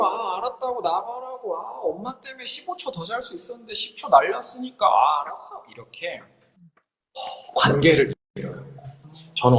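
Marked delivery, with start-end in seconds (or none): 0.0-5.6 high, whining protest; irritated teen. Acted. Teenager telling mother to get out in the morning, whiny irritation. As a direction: whine back at a nagging parent, exasperated.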